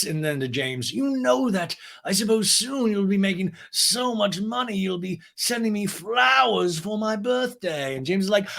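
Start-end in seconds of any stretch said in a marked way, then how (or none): 0.9-7.9 high, slow, posh voice; Lisa impression. Lisa praises James, high slow posh voice. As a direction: savor it like a grande dame.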